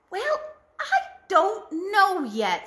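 slow nervous laugh, unsure; flustered bumbling goofy. Acted. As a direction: bumble through it with a giggle.

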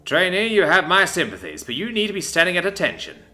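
gentle chiding. Acted. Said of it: "he chided, very gently".

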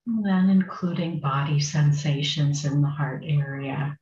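unhurried meditation guidance with long pauses; guided meditation. Acted. Meditation teacher settling a group into sitting, guided meditation. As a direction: guide them gently, phrase by phrase, leaving space.

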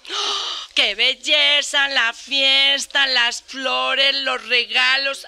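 slow, swooning reminiscence; dreamy old spinster. Retold or imitated. Old spinster telling her friend about communion day, slow and swooning. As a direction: linger over each word like a sighing old maid.

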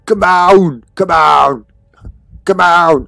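loud, pleading come on; frustrated urging. Real, not acted. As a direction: push the game along in frustration.

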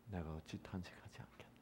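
fast, soft whisper; God's hushed sorrowful question; whispered divine lament. Acted. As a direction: breathe God's grief. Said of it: "하나님이 요나보고 뭐라 그래요".

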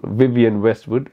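slow, careful Vivian Westwood, minding each V and W; careful pronunciation. Shown as a demonstration. Showing viewers a tricky V and W name, slow and careful. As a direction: take your time over the V's and W in "Vivian Westwood". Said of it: "a second of thinking time to say that".

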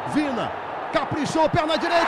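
excited play-by-play. Real, not acted. Penalty being taken.

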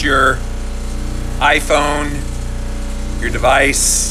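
shaky voice rattled by vibration; vibrating voice. Real, not acted. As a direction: say it while the plate shakes you. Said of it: "my voice sound like I am a robot".

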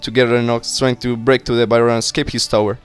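lightly performed briefing voice; mission briefing read-aloud. Acted. Officer briefs new recruit on the mission, lightly performed reading.

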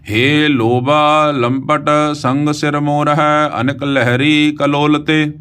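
slow, loving recitation of the verse; with love. Shown as a demonstration. Teacher modelling a loving recitation of the verse for students. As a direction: recite it tenderly and unhurried. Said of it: "ਇਹਦਾ ਉਚਾਰਨ ਵੀ ਆਪਾਂ ਪਿਆਰ ਨਾਲ ਕਰਨਾ ਹੈ".

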